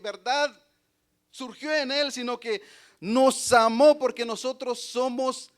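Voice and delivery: loud, high-pitched pulpit delivery; forceful preaching. Real, not acted. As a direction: preach it out to the congregation.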